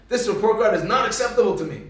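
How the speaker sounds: mildly stern mother, emphatic; stern disapproval. Retold or imitated. Mother to Moshe about report card, stern disapproval. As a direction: lay down the law to a child. Mother retells scolding her son.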